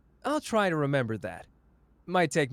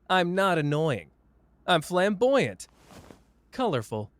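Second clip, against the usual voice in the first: mock-offended; 5 semitones higher, 5 dB louder than usual. Mock defence of himself.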